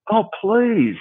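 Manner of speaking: high, drawn-out scoff; theatrical eye-rolling dismissal; mock exasperation. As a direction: plead to be spared, hammed up. Scoffing at dentists' small talk.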